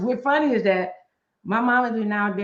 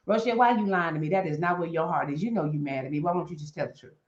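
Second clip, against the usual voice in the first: fast then dropping softer, knowing; God's teasing voice; 4 semitones lower, 4 dB quieter, faster than usual. Retold or imitated. God to Rochelle, teasing, then soft and knowing. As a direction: tease her gently as God. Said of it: "God laughing at us going".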